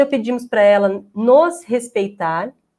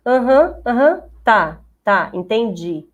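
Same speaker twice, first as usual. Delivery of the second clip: absent-minded "Aham, aham, tá", drawn out slowly at the end; distracted aham; slower than usual. Imitating an adult who only pretends to listen to the child, distracted murmur. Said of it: "Ele, ela fica assim, ó".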